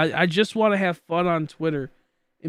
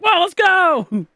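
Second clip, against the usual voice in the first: high, loud, drawn-out hype shout; excited cheer; 14 semitones higher, 8 dB louder, much slower than usual. Retold or imitated. Streamer re-enacting his reaction to English, loud drawn-out cheer. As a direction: whoop it slowly, stretching the words up high.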